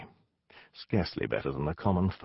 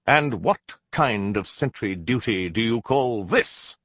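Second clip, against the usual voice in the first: a mild, slow snap at the sentries; snapped rebuke; 3 semitones higher, 3 dB louder than usual. Acted. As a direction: scold them, a touch of irritation. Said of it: "I snapped".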